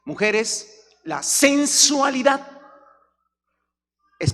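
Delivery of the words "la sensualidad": la sensualidad drawn out slow and high; stress on sensualidad. Real, not acted. Preacher warns women, drawing out la sensualidad slowly. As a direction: stretch out la sensualidad. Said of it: "stressed slowly".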